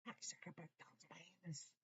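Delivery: whisper. Acted. Whispered meme line.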